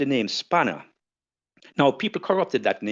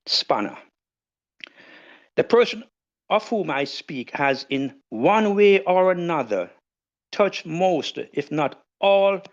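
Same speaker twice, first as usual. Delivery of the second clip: slightly raised, measured oratory with deliberate pauses; stately podium address; formal tribute speech; 3 semitones higher than usual. Acted. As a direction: deliver a solemn tribute, phrase by phrase. Delivers formal written tribute speech.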